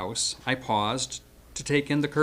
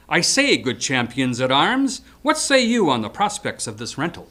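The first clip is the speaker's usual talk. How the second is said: mock knight; 5 dB louder than usual. Calls up to fencers, mock-archaic.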